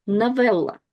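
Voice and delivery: Новелла said "na-VEL-la"; unstressed O as A. Shown as a demonstration. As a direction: open the first O of Новелла into an A. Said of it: "unstressed O is read as A".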